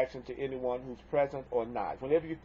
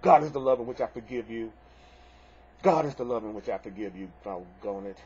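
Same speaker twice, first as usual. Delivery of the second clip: grudging, exasperated; 4 semitones lower than usual. Shown as a demonstration. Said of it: "It can be".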